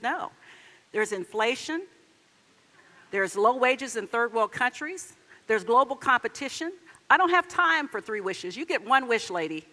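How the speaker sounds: lightly acted exasperated genie laying down the law. Genie refuses woman's three wishes.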